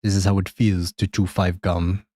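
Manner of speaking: badly faked Russian accent; horrible Russian accent. Shown as a demonstration. Streamer doing a joke on request, in a horrible Russian accent. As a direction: attempt Russian and miss. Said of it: "Okay, so horrible accent".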